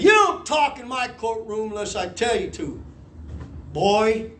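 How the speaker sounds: lightly voiced stern judge; mean judge. Judge scolding defendant in court, lightly mean tone. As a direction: put down a defendant, a hint of meanness. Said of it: "he was being mean".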